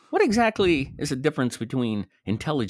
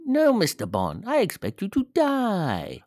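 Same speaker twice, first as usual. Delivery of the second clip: higher, mock villain voice; imitating Goldfinger; 11 semitones higher than usual. Co-host echoing the villain line, mock menacing. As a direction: ham up the villain's threat. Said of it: "repeats Goldfinger line, correcting".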